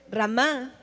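Ramá said with the stress on the last A, ra-MÁ; Ramá acentuado en la A final. Shown as a demonstration. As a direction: land on the closing A of Ramá. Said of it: "con acento en la A".

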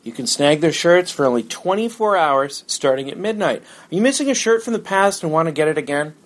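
upbeat sponsor read. Acted. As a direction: read it like a radio ad.

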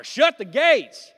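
slow, booming Shut the gates with full force; Nehemiah power. Shown as a demonstration. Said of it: "like, Nehemiah power".

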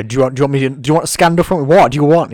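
half-sung angry taunt; mild mock angry singer; angry singer's lyric. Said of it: "a singer being quite angry".

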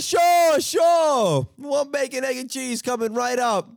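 high, loud eager clerk voice, the first sure shouted; cheery bodega clerk. Retold or imitated. Bodega clerk takes a coded order, high and loud. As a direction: play the overeager counter guy with a booming sure.

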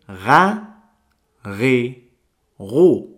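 Ga, ri, ru with a throaty ghain, each syllable slow and apart; ga ri ru with a gargled R; ghain sounds. Shown as a demonstration. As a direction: demo the ghain syllables one by one. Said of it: "Vuelvo a repetir".

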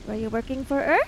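short, hard question pressed at sword point; curt demand at swordpoint; terse. Acted. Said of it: "asks him rather tersely".

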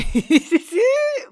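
high, loud burst of laughter. Real, not acted. Laughing as she admits her cheeky advice to a young graduate. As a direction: cracks up laughing at her own joke.

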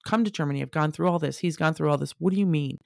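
retold upset, quick and insistent; upset protest. Wife objecting to being refused the flight, retold upset. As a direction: protest in rapid bursts, mildly worked up. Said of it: "I was so upset".

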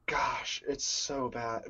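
soft unvoiced whisper. Real, not acted. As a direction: whisper it in dismay. Cringing remark, whispered.

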